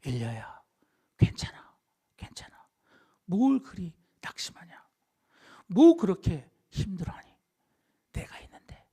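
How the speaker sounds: gentle reassurance. Acted. Preacher as God comforting discouraged Elijah, gentle hushed reassurance. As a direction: soothe them tenderly, leaving space between phrases. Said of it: "이런 거예요".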